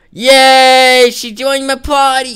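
very high, tiny squeaky cheer; high-pitched squeaky celebration; squeaky cartoon cheer.

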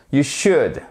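should dit « choud », L muet. Shown as a demonstration. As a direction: ne prononce pas le L de should. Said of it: "On ne prononce pas le L". (should sans L, « choud »)

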